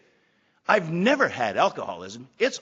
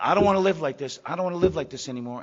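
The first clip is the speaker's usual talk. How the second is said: a louder plea, the scream only hinted; retold scream; 5 dB louder, faster than usual. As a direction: cry it out again, less raw. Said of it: "I screamed out".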